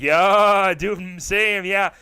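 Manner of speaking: high, loud eager yeah; eager agreement. Retold or imitated. Teacher eagerly agreeing to cocaine, high and loud. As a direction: jump in keen and delighted.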